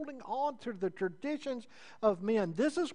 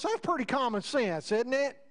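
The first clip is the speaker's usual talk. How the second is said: God's voice; 6 semitones higher, 5 dB louder than usual. Retold or imitated. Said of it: "God leaves that up and goes".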